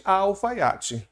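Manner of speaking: "a alfaiate" drawn out very slowly; slow demo. Shown as a demonstration. Teacher trying the feminine form, very slowly. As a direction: test "a alfaiate" slowly, word by word. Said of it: "Não, não muda".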